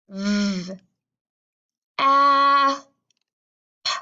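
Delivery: V and short a held long, p popped alone; V, a, p as three separate sounds; sounding out. Shown as a demonstration. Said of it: "One more time".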